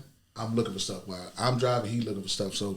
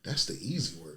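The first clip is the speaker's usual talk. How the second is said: put-on very old man; 5 semitones lower, 7 dB quieter than usual. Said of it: "I'm doing the old man voice right now".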